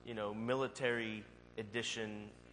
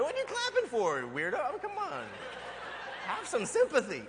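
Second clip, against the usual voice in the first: mock snippy shopper; 14 semitones higher, 5 dB louder than usual. Mocking stares of other shoppers.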